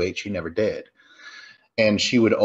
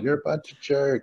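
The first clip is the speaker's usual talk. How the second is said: higher, half-hearted mock holler; mock yelling across a lake; 5 semitones higher than usual. Camper insulting the rival camp from across the lake, mock yelling. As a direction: imitate a distant taunt without full volume. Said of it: "they start yelling at Camp M V P".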